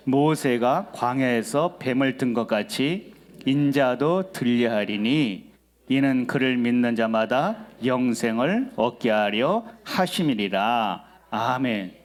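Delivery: slow, measured Bible reading; deliberate pulpit reading; scripture reading. Real, not acted. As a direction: read the verse out slowly for the congregation to follow. Reads scripture aloud to congregation.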